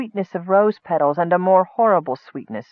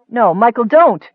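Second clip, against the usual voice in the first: raised, high-pitched protest; urgent plea; 5 semitones higher, 5 dB louder than usual. A narrator's reading. Nicole interrupting the cleric's answer, urgent and raised. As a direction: cut in quickly to stop him. Nicole cuts in to stop Michael.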